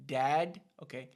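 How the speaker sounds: ordinary talk, nothing marked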